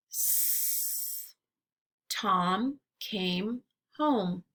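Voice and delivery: slow sentences with the final sounds stressed; exaggerated word endings. Shown as a demonstration. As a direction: say each word slowly, leaning on its last sound. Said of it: "listen for ending sounds in words".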